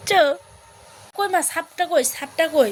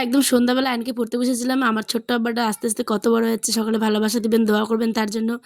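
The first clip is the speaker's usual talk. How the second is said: warm sign-off; faster than usual. Real, not acted. Sign-off to viewers, calmer lower voice.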